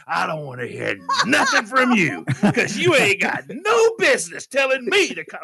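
high, emphatic scolding; imitating a fed-up companion's telling-off; retold tirade. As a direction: lay into him with indignant force. Carla berates him on drive home.

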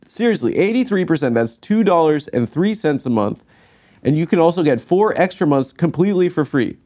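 hyped sales pitch; excited ad read. Acted. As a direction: sell the discount hard. Ad read hype.

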